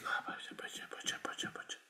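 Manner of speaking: soft unvoiced mock whisper. Preacher mocking a sly gentle speaker, in a whisper. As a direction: hush it like a sweet-talking saint. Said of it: "ngomongnya bisik-bisik".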